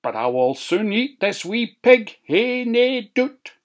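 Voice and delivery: high, puffed-out wolf. A narrator's reading. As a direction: pant like a tired wolf. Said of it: "said the wolf".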